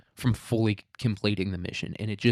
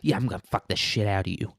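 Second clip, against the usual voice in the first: lightly voiced gamer trash talk; mock gamer voice used as dirty talk; a hint of gamer bravado, played for laughs; faster than usual. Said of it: "in full gamer voice".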